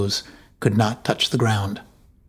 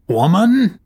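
angry shout; 9 semitones higher, 5 dB louder than usual. Acted. Jarl cut off in rage.

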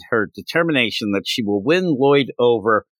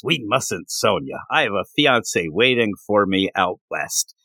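lowered male voice; 4 semitones lower than usual. Acted. Man answering in romance scene.

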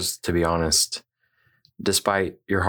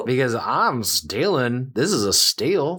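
drawn-out mock yell, slightly raised; retold yell; 3 semitones higher, slower than usual. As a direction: stretch it out in mock triumph. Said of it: "As I yelled that at her".

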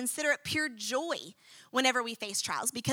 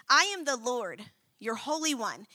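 God's tone; 3 dB quieter than usual. Acted. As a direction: read it as God's quiet, certain power. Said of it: "I want y'all to hear God's tone".

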